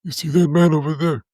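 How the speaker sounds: high, put-on mob boss murmur; mob boss whisper, imitated. Friend imitating the bully as a mob boss giving orders, mock whisper. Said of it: "would lean over and just whisper".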